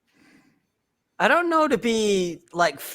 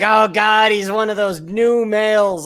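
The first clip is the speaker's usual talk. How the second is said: mock disgust; much slower than usual. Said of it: "some of these guys are gonna be like".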